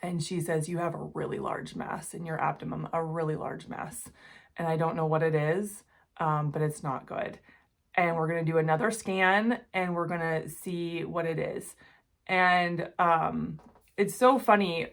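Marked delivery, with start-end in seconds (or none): 0.7-11.8 softer, serious doctor's warning; grave news. Retold or imitated. Doctor calling her about the scan, quiet and grave. Doctor reporting a large mass.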